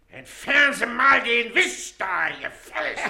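ungeduldig, laut und langsam; losing patience. Acted. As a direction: order it off the table, exasperated. The official loses patience.

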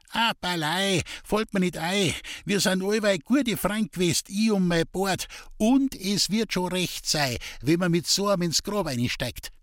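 put-on trusting old villager. A narrator's reading. Old woman trustingly refusing a shave. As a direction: answer simply and trustingly, like an old friend. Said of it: "so pflegtest du treuherzig zu erwidern".

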